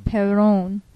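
Perron, R trilled, slow and careful; rolled r. Shown as a demonstration. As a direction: roll the R in Perron again. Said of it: "One more time".

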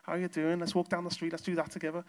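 lightly put-on Liverpool Scouse greeting; Scouse accent. Newcomer greeting a mate in Liverpool, light Scouse accent. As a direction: chat like a mate in mild Scouse. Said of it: "believe it or not, a Scouse accent".

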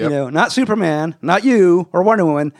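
self-satisfied superhero showing off; bragging Flash. Retold or imitated. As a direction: play the showboating hero hinting at his own museum. Flash bragging to teammates, retold.

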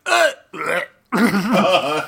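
halting mock death gurgle; mock dying groan. Mimicking Gen's last breath for cohosts, halting groan. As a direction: croak it out like a dying hero. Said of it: "does that thing where he's like".

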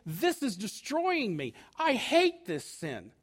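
slow, emphatic confession; earnest hatred of sin. Acted. Penitent confesses hatred of the sin, slow and vehement. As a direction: drag out each word with loathing. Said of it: "you've gotta hate it and say".

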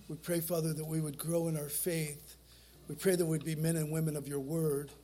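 steady pastoral prayer voice; closing prayer. Acted.

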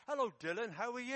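loud, high grandma calling out; grandma's greeting. Acted. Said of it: "walks past a grandma who says".

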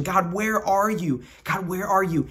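mild plaintive cry; a touch of anguished pleading. Acted. Hosea in exile cries out to God, mildly pleading. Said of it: "as he's crying out to God".

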